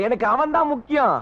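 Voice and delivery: shouts it out in anger; angry shout. Acted. To the girl, angrily shouting that only he matters. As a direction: bark the line hard at her. Insisting on finding him.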